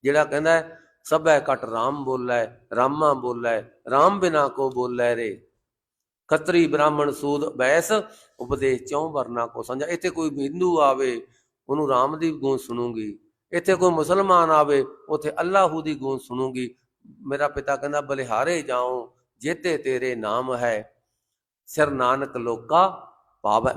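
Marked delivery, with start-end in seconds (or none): 1.0-9.9 unhurried recitation of holy verse; scripture recitation. Acted. Quotes scripture. 18.0-23.7 slow, measured holy verse; unhurried verse recitation; scripture recitation. Acted. Quotes scripture.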